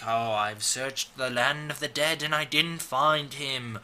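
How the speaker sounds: lightly voiced mystical fortune-teller; drawn-out spooky séance delivery with a ghostly "ooh"; gypsy lady. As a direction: play a hint of a hokey gypsy seer. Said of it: "like, a gypsy lady is like".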